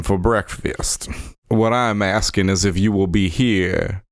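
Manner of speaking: put-on lightly held character accent for Deke; a courtly Southern accent, politely formal; Deke's Southern-style drawl accent. Son asking the lady about breakfast, in a light character accent. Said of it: "my other accent is slipping into this one".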